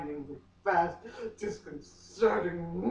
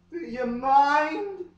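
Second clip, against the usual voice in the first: breathy high plea; 8 semitones higher, 5 dB louder, slower than usual. Acted. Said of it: "I asked".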